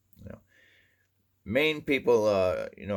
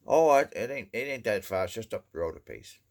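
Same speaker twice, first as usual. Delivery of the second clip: folksy Maine reassurance; 4 semitones higher than usual. Retold or imitated. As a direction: brush off the distance cheerfully. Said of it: "if they tell you".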